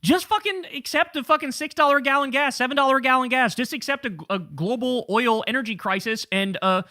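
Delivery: high, contemptuous mock lecture; mock the war hawks telling people to swallow it; sneering mock pundit. Host mocks pundit telling Americans to accept gas prices, sneering high voice. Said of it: "the implication here is like".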